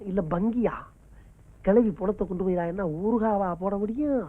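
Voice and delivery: very low, hushed scheming; muttered aside. Acted. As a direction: mutter it to yourself, low and soft. Private aside before fleeing the bill. (தனக்குள் முணுமுணுப்பு)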